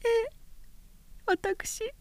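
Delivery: muffled behind her hands; face in hands. Acted. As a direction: speak into covered face. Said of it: "覆った手の影から言った".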